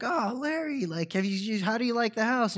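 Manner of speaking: high, chirpy hostess voice, well above his own; sweetly pushing her new house; gushing hostess. Retold or imitated. Wife shows Larry her new house, high and gushing. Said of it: "she's like".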